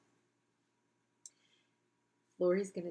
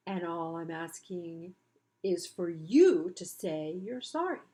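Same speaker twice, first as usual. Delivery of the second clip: slow retort; 4 dB louder than usual. Acted. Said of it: "retorted the spider".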